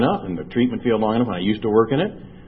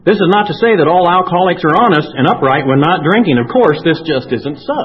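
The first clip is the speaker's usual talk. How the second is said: louder and higher, laughing through the words; laughing read; 6 semitones higher, 7 dB louder than usual. Real, not acted. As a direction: read it out amused and loud. Reads book line, laughs at it.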